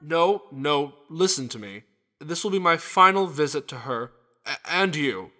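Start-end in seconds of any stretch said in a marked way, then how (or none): 2.2-5.3 grave farewell announcement; grim. Acted. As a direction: break the final news solemnly. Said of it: "You're sounding a little grim".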